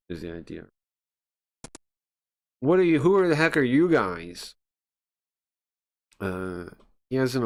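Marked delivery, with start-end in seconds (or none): 2.6-4.5 high-pitched, near-hysterical outburst; shrill panic, pitched way up; a man close to losing it, voice jumping high. Acted. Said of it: "High-pitched, almost hysterical voice".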